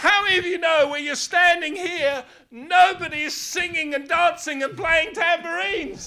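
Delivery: forceful preaching. Real, not acted. Preacher challenging listeners standing before the sea, forceful and high. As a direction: press the question on the congregation.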